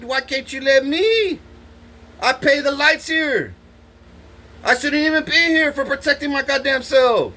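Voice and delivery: high, heated ranting with a shouted start; angry outburst. Retold or imitated. Inmate yells at the guard about being disrespected, high and outraged. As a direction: blow up at him, outraged and indignant. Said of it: "And I'm like".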